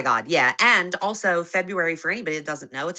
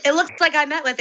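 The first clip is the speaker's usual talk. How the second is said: high squeaky voice; 7 semitones higher, 4 dB louder than usual. Real, not acted. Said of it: "She voices are too high for this".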